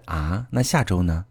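slow, hesitant, tentative question; timid probing. Acted. Girlfriend carefully asking boyfriend about next week, timid and probing. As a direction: ask it meekly, testing the waters. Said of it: "弱弱地试探着问".

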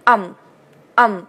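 "um" with the open American vowel of "some"; "um" drawn out in the American way. Shown as a demonstration. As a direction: say "um" twice, slowly, as separate model sounds. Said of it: "美音是um".

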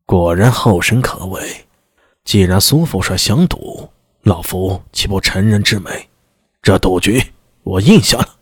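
lightly voiced, chilling old minister; cold old minister. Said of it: "那声音里蕴藏的冷酷".

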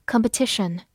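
Competition with stress on TI. Shown as a demonstration. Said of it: "重音放在了T这个音上".

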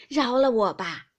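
loud, drawn-out plea for mercy; crying out. A narrator's reading. Granny dragged back to the table, crying out for mercy. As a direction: call out slowly and loudly, begging off. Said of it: "刘姥姥只叫".

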